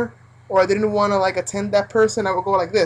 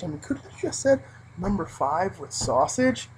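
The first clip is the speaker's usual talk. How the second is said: inner exasperation; 2 semitones higher than usual. Retold or imitated. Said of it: "inside I was like".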